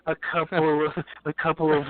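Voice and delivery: lightly imitated Enzo accent; a hint of mock Enzo accent. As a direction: mimic the Enzo catchphrase, accent lightly put on. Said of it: "my Enzo accent".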